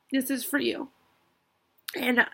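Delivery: whispered through tears; barely a breath as she recovers; a shaky whisper; tearful whisper. Real, not acted. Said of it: "I knew I'd get emotional".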